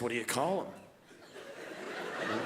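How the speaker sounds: slow, low, disbelieving; low incredulous voice. Retold or imitated. Comedian to cupcake manager, low stunned disbelief. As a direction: drag it out, too stunned to raise your voice. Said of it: "start talking so low".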